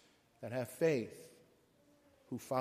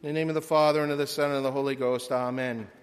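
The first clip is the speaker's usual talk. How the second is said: louder, brisk sign of the cross; loud invocation; 6 dB louder, much faster than usual. Acted. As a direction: call out the blessing quickly before preaching. Opens sermon with invocation.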